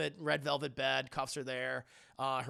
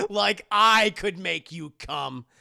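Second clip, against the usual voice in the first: evil Christian Grey; 2 semitones higher, 8 dB louder than usual. Acted. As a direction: ham it up as an evil seducer. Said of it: "he's like an evil Christian Grey".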